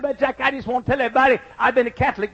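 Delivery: high imitation of a southern drawl; little southern drawl. New convert addressing the church, imitated southern drawl. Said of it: "in a little southern drawl".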